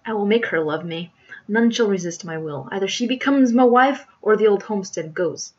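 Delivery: sinister squire laying down his terms; stern villain's threat. Acted. Squire threatens to take homestead, sternly. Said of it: "sternly snapped the s-, sinister squire".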